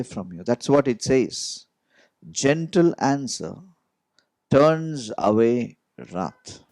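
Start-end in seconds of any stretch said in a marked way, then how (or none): 2.3-6.6 slow, gentle reading. Shown as a demonstration. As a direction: read it slowly and gently. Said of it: "Let me read the word again".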